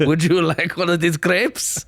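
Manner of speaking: lightly hammed French accent. Supposed hitman introducing himself, in a French accent. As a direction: play a suspicious fake Frenchman. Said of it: "His fucking big fake mustache".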